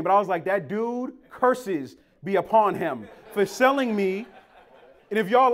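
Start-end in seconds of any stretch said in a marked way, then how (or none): 0.4-4.3 mock curse. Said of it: "I cursed his name".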